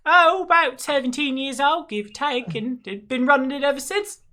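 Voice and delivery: high, lilting landlady voice; chatty tavern owner. Acted. Tavern owner explaining how she inherited the bar, chatty. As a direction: tell your history in a high, animated voice.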